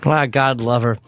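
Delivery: tight-toothed put-on articulation; teeth held still. Showing the co-hosts his new character, stationary-teeth voice. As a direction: talk with only the lips moving. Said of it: "this bit you're doing".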